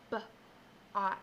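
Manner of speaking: "B-ot" split into its sounds; sounding out. Shown as a demonstration. Teacher segmenting the word part for the class, sounded out. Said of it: "I heard a B-ot".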